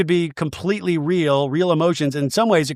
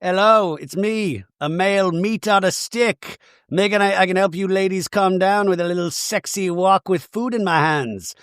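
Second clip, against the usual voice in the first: mock hunky waiter; 4 semitones higher than usual. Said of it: "They brought in the big guns".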